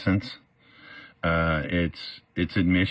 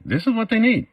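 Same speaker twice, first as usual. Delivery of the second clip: much higher and louder repeat; emphatic insistence; 4 dB louder than usual. Real, not acted. Speaker insists what molesters need, emphatic higher repeat. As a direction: drive the point home.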